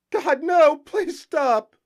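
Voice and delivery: high, loud begging scream; anguished cry. A narrator's reading. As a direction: scream in despair at the train. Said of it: "she cried".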